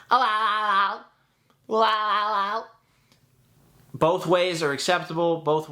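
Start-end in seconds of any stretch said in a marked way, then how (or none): 0.1-1.8 high, choppy laugh, jaw bouncing; SpongeBob laugh with the jaw. Shown as a demonstration. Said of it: "let's try it both ways". 1.8-2.7 high, choppy laugh, cords fluttering; SpongeBob laugh from the throat. Shown as a demonstration. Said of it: "let's try it both ways".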